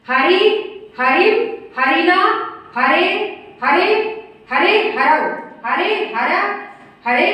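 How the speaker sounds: chant-like list, each form lifted at the end; declension recitation. Shown as a demonstration. Teacher reciting the forms of Hari for students, declension recitation. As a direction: recite each form separately with short pauses. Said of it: "बोल के दिखा रही हूँ आपको".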